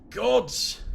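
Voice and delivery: loud pained growl of a curse. Acted. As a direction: spit the curse out in pain. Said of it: "he growls".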